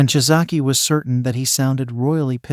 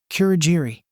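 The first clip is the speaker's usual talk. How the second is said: outraged; 4 semitones higher than usual. A narrator's reading. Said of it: "she exclaimed in outrage".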